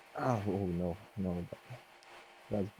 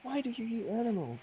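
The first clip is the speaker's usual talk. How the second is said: put-on girly voice; 5 dB quieter than usual. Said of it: "Why are you talking like this?".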